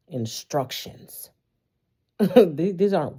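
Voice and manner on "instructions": whispered correction. Real, not acted. Correcting wish to instructions.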